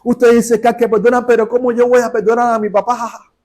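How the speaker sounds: high, monotone mock outrage; angry protest. Young woman challenging the preacher about forgiving her father, angry. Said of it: "el enojo que traía así".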